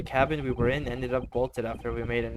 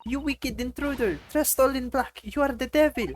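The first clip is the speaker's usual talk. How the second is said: accusing woman voice; 12 semitones higher, 4 dB louder than usual. Acted.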